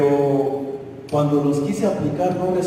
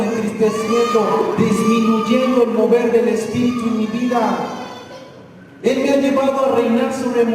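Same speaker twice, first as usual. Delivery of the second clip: louder, higher, driving pulpit voice; full-force preaching; 5 semitones higher, 3 dB louder than usual. Acted. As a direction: preach it out to the congregation.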